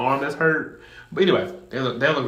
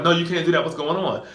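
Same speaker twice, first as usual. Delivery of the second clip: put-on girlfriend pleading; 5 semitones higher, 3 dB louder than usual. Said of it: "the girl grabs him like".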